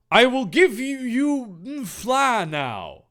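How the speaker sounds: lightly voiced sexy hero, high start; slow and drawn out, mock seductive; Thor. Thor offers help to the two adventurers, mock-sexy. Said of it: "Thor said all sexy like".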